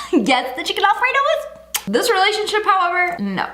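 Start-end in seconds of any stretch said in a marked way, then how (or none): 0.1-1.8 sudden bright customer-service tone, higher; a light mock of a diner turning polite mid-fight; polite waiter voice. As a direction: switch instantly to sweet politeness for the waiter. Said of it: "switch it up for the waiter real quick".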